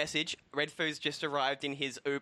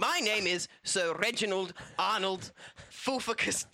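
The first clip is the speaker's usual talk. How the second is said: put-on posh English accent; 3 semitones higher than usual. The speaker introduces his real self to host, posh English accent. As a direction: announce the name in a pompous English accent. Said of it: "my accent's changed".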